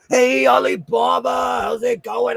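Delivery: high, loud call to a viewer; calling out a greeting. Real, not acted. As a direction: shout a hello across the room.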